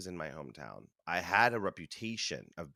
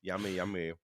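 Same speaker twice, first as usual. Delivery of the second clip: chewing; 5 dB louder than usual. Real, not acted. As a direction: mouth full, playful ASMR. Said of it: "A S M R for all you friends".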